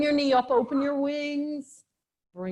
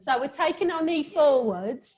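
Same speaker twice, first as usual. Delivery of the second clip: playful London accent, pitched a little up; lively mock-London lilt; 3 semitones higher than usual. Shown as a demonstration. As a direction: teach the move in a put-on London accent. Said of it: "I do love the London accent".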